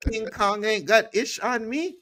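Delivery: very high, shouted-style movie boast; hammed-up celebrity impression; Denzel Washington. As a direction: quote it with big swaggering bravado. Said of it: "what did Denzel Washington say".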